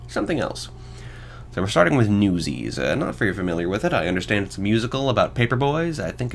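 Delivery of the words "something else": whisper. Real, not acted. Teasing a mystery item in the list.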